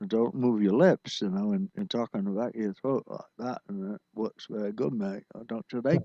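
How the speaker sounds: lightly imitated Australian, lips barely moving; Australian accent. Host passing on a friend's tips in mock Australian accent. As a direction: talk Australian from the throat, quietly. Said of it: "gave me the business about".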